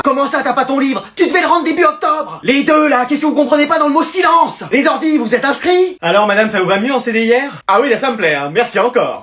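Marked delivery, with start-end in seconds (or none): 0.0-6.0 a hint of a stern librarian scolding; imitating librarian. Students mimic the strict librarian. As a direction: scold like the school librarian, a bit higher. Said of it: "y a un métier qui est fait pour vous".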